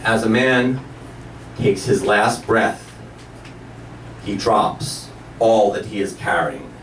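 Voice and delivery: very slow, low spiritual sage; long reverent pauses between low phrases; Mister Nepo. Retold or imitated. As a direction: let each phrase sink in, slowly. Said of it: "then Mister Nepo says".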